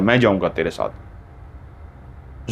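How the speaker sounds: creepy volunteer for the night ghost walk, slow and hushed; eerie voice. Acted. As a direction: drag it out like something haunted. Volunteering for the haunted fort.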